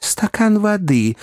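slow, high call for help; good-natured gentleman calling for water; kindly request. A narrator's reading. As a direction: ask kindly but urgently, drawing it out. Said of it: "попросил добрейший мистер Пиквик".

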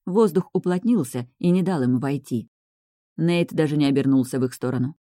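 ordinary delivery, nothing marked

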